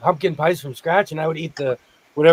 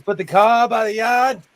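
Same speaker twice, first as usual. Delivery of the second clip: put-on Boston accent; 4 semitones higher, 4 dB louder than usual. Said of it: "let's practice".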